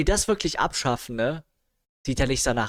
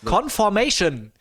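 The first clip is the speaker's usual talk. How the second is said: text-to-speech voice; 5 semitones higher than usual. Retold or imitated. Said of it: "Text-to-Speech-Stimme".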